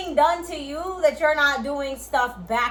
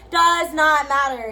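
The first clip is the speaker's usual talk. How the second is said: slow, louder Does not matter; emphatic insistence; 6 dB louder, slower than usual. Real, not acted. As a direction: spell it out slowly, firmly. Repeated insistence.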